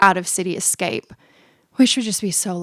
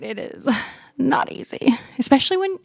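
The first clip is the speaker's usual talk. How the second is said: whispered aside with a small laugh; embarrassed whisper; 6 semitones higher than usual. Real, not acted. Confiding to listeners about geography, whispered. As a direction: whisper it like a sheepish confession.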